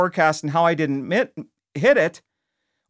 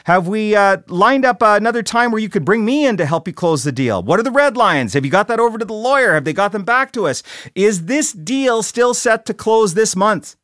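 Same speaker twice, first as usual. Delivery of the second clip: louder, higher grilling boss; pressing questions; 4 semitones higher, 3 dB louder than usual. Retold or imitated. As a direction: push the rep for answers. Boss grilling rep on forecast.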